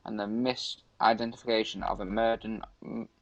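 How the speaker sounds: halting read-aloud from an article. Acted. Streamer reads an urban legend to a friend, reading aloud. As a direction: read it out to a mate, stumbling a little.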